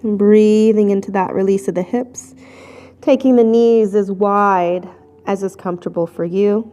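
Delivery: calm yoga instruction, phrases set apart by long pauses; guided breathing. Real, not acted. Yoga teacher guiding the class in child's pose, guided breathing.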